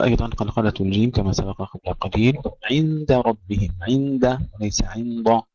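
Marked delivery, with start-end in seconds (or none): 2.7-3.8 عند with a thin light د before the heavy ر; عند ربهم: keep the د light, not heavy; light dal. Shown as a demonstration. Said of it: "ترقيق الدال قبل الراء المفخمة". (ترقيق الدال في عند)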